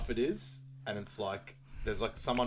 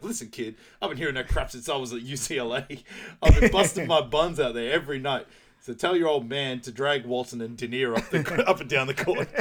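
irritated rant; 3 semitones higher, 9 dB louder than usual. Retold or imitated. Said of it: "He's like".

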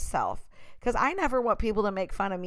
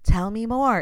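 creepy fake interest. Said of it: "It's like Psycho".

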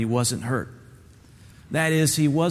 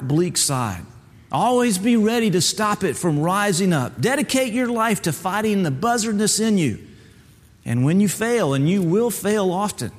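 a hint of a stern, higher mentor voice; lightly voiced turkey mentor; 5 semitones higher than usual. Mentor tells Bubba hard truths, lightly voiced stern teacher. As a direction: gently lecture the young bird.

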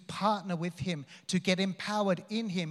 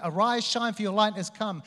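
booming proclamation; 5 semitones higher, 6 dB louder than usual. Acted. Preacher quoting scripture, rising.

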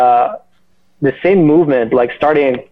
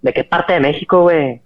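lightly put-on Mexican Spanish; Mexican accent; 3 semitones higher, faster than usual. Morphing speech on hearing someone is from Mexico, light Mexican accent. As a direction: slip casually into a Mexican accent. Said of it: "he's from Mexico".

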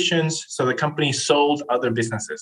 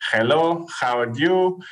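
raised a little, a mock-stiff scripted Chilean-accented greeting; lightly imitated Chilean accent; bad English accent; 4 semitones higher than usual. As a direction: read a door-knock script in a heavy Chilean accent. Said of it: "the worst accent ever".

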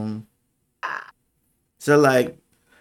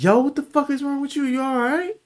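much higher, quicker imitated friend's voice; high-pitched retold questioning; imitating concerned friend. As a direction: pitch it way up as the alarmed best friend checking in. Voicing best friend's concerned reply.

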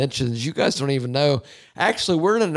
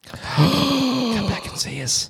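mock sob; 10 semitones higher, much slower than usual.

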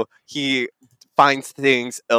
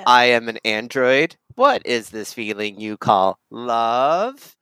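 android. Acted. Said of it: "Are you gonna do that for the whole thing?".

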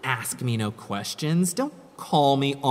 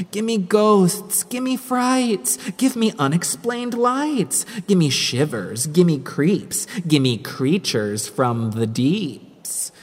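excited, pitched-up craving; eager; 4 semitones higher than usual. Acted. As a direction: beg for thrills with relish. Craving Halloween frights.

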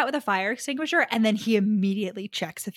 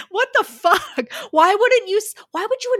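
higher and louder, incredulous outburst; outraged disbelief; 12 semitones higher, 7 dB louder than usual. Real, not acted. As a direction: blurt out the outrage. Outraged at Mick's choice.

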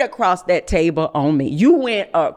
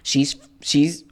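whispered; 6 semitones lower than usual. Retold or imitated. God speaking to her in a hushed whisper.

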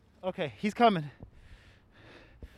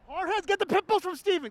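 put-on broad singsong kids theatre; 7 semitones higher, 3 dB quieter than usual. Shown as a demonstration. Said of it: "Can you say that with me?".

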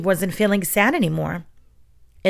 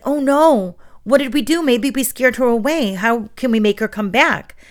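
mock worry; 5 semitones higher than usual. Teacher pretending fairy scared away.

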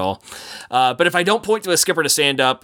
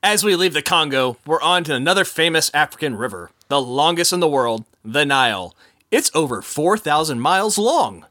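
upbeat tour guide patter; boat skipper spiel. Acted. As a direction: sell the jokes like a jungle skipper.

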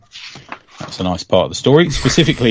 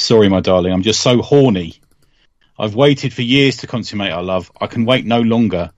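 dramatic reading. Acted. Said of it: "a dramatic reading of".

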